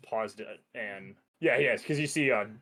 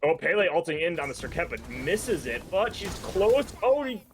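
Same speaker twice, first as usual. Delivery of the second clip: higher-pitched, keyed-up match commentary; live esports play-by-play; 4 semitones higher than usual. Real, not acted. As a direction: call the fight as it unfolds.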